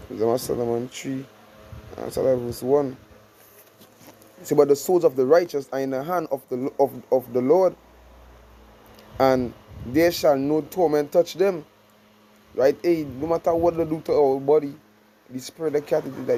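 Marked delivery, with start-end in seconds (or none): 4.6-11.6 scripture reading. Acted. Reads scripture aloud slowly.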